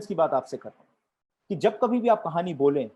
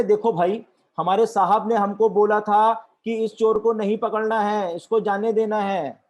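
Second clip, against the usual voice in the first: loud, higher-pitched insistent explanation; insist, louder and higher, as a defensive constable; policemen protesting; 4 semitones higher, 5 dB louder than usual. Acted. Policemen protesting in acted joke. (ज़ोर देकर सफ़ाई देता सिपाही)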